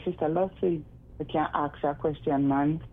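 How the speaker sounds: casual Jamaican cadence; everyday Jamaican lilt; Jamaican patois cadence. Shown as a demonstration. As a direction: drop into relaxed Jamaican speech. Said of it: "change the cadence between the, the twang".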